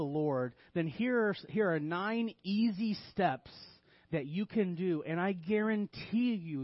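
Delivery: mock sales pitch with emphatic key words; deadpan sarcastic guarantee; tongue-in-cheek. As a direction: pitch bad advice as if it were a bargain. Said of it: "in a tongue-in-cheek manner".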